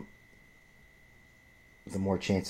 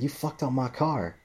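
slow, higher mock accusation; mock screaming woman; 6 semitones higher than usual. Angry driver accusing him, mimicked slow and higher. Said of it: "fucking screaming at me".

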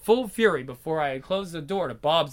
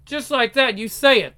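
angry; 6 semitones higher, 5 dB louder than usual. Acted. Jealous husband confronts wife.

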